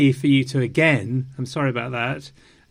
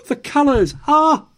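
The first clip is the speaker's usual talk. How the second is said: higher, louder hammed-up rave; mocking gushing fans; 11 semitones higher, 4 dB louder than usual. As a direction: overdo the fans' breathless delight. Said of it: "everybody started saying".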